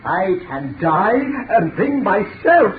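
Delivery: manic boasting. Acted. Mad boasting.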